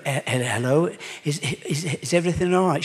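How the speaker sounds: hesitant and uneasy, tripping on the words; nervous stammer. Acted. Nervous father stammers on phone.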